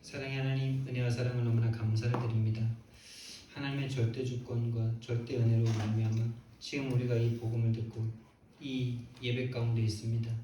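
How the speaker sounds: steady monotone prayer voice; public prayer. Real, not acted. Preacher to God closing the sermon, public prayer. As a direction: pray earnestly in even, measured phrases.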